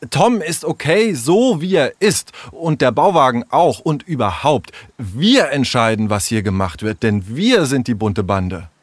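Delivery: emphatic, heated defence; angry. Acted. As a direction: stand up for him, somewhat angrily. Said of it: "rief Leo wütend". (leicht wütend, energisch)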